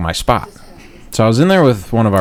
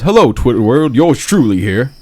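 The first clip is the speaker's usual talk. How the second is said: mimicking O J; 2 semitones higher than usual. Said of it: "like he's writing an old-timey letter".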